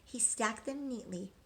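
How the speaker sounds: rhythmic storybook read-aloud; reading to children. A narrator's reading. Teacher reading a rhyming picture book to children, sing-song. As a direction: read the rhymes to the class, lilting.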